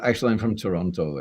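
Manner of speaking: lightly put-on Scots accent; kept-up Scots accent. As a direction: retell it with a slight Scots lilt. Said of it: "I kept the accent up".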